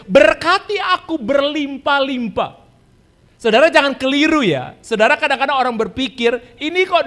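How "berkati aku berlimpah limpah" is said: Berkati aku berlimpah-limpah drawn out slowly, word by word; slow solemn prayer. Shown as a demonstration. Preacher quoting Jabez's prayer to the congregation, slow and weighty. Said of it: "Seperti doa Yabes".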